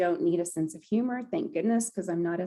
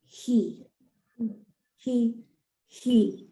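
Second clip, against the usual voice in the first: jaw he he; 2 semitones higher, much slower than usual. Shown as a demonstration. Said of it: "And then on your jaw".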